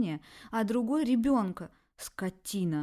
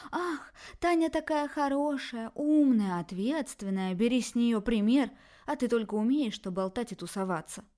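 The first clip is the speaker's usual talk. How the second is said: shrill mocking; 4 semitones higher, 5 dB louder than usual. Daughter mocks her parents' praise of her sister, shrill. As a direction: mimic their praise of Tanya, scornful. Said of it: "визгливо выкрикивать свои претензии".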